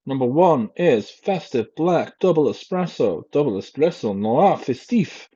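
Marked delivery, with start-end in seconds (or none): 3.3-5.3 reading the coffee name in a hammed-up French accent; a half-hearted French accent on the product name; mock French accent. Vlogger reading the pod label aloud, mock French accent. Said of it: "Don't know what accent that was in".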